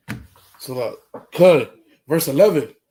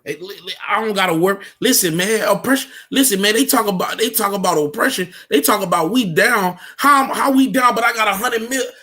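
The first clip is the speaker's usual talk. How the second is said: boastful rich brother; faster than usual. Pretend.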